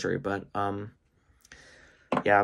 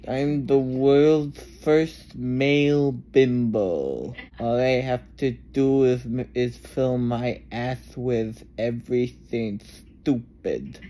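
numb lips, slurred words; numb from the dentist. Real, not acted. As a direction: talk with a numb mouth. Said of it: "My lips are so numb".

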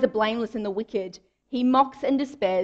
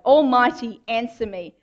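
demanding cry; 2 semitones higher, 5 dB louder than usual. Retold or imitated. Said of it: "demands a reason and an answer from God".

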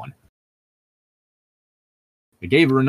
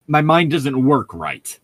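slow, louder, dismayed; chagrin; 5 semitones higher, 5 dB louder, slower than usual. A narrator's reading. Host reading Bella's reply to Edward, slow with chagrin. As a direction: read it as stung disbelief. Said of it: "her voice rising with chagrin".

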